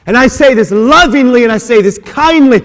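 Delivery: usual speaking voice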